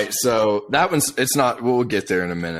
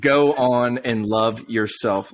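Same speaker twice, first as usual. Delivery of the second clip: mocking lyric reading; 4 semitones higher, slower than usual. Friend mocks the song's lyrics to his co-host, sneering. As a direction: read the lyrics to make them sound pathetic. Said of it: "you can't read lyrics like that".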